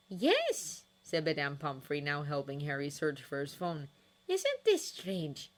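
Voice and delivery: a surprised, fretting matron. Acted. Pomfrey voiced high.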